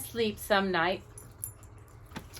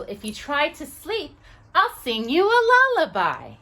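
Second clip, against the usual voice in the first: a touch higher, gentle angel promise; tiny angel voice; 6 semitones higher, 5 dB louder than usual. Acted. Tiny angel promising the boy a lullaby, lightly higher. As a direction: coax him to sleep as a tiny angel.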